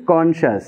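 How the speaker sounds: কনশাস slowly in two separate syllables. Shown as a demonstration. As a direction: split কনশাস into কন, শাস. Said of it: "এরকমভাবে".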